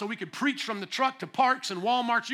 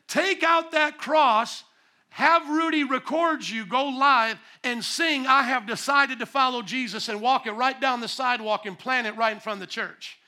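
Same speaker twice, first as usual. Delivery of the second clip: booming command; 4 semitones higher, 6 dB louder than usual. Retold or imitated. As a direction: boom out a divine order. Retelling God's loud command.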